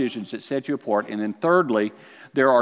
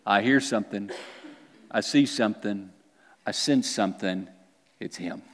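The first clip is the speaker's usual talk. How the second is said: hushed tracker; 6 semitones lower, 5 dB quieter than usual. Acted. Pointing bird dog sensing prey.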